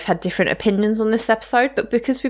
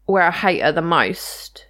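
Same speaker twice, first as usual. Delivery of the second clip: whispering; slower than usual. Real, not acted. Aside about Agnes.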